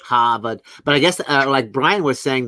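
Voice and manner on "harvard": imitated Boston accent, dropped r's; one word in mock Bostonian accent. Shown as a demonstration. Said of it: "people in Boston have a really thick accent".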